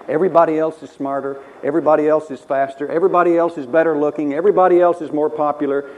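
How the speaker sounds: mounting mock complaint. Preacher voicing Cain's self-pity, rising loud and fast. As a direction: pile up the self-pitying complaints. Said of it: "what he was thinking was".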